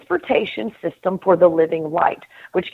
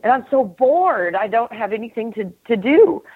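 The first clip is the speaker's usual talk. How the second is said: bored God; 4 semitones higher than usual. Retold or imitated. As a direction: whine that there is nothing to do. God voiced complaining of boredom.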